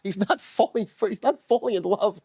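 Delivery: defensive, slightly squeaky puppet voice; high-pitched protesting. Real, not acted. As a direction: voice climbing in self-defense. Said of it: "how high it's getting".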